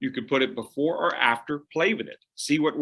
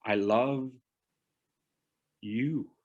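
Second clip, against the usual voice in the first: soft I love, pause, then you; pause before you; 5 dB quieter, much slower than usual. Shown as a demonstration. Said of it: "put that pause there".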